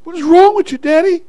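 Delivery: high-pitched question at moderate volume; toned-down rebuke. Acted. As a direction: ask Daddy pointedly without shouting. Same rebuke repeated, toned down.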